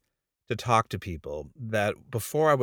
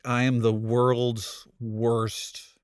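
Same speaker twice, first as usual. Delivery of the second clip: inner self-scolding; much slower than usual. Retold or imitated. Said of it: "I'm just like".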